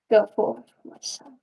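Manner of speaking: put-on Southern accent dropped, soft kingly blessing trailing into a whisper; regal king voice. Puppeteer voicing her king puppet to viewers, solemn hushed blessing. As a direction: bless your son like a solemn old king. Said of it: "here's the voice of this puppet".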